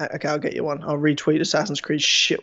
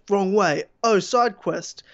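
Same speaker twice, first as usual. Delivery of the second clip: slow, dopey, distracted musing; mock gamer inner monologue; 6 semitones higher, slower than usual. Mocking the tweet to a friend, slow ditzy gamer voice. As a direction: play the lost gamer wandering off the plot. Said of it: "Then goes".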